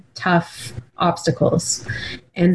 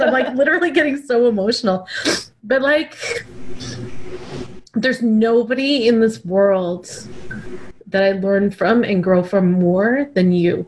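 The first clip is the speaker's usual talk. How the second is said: choked up; 3 semitones higher than usual. Real, not acted. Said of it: "I can't talk anymore".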